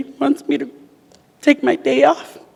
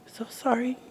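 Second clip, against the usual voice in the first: soft unvoiced whisper; a retold whisper of apology; whispered sorry; 5 semitones higher, 15 dB quieter than usual. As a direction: breathe the words, barely voiced.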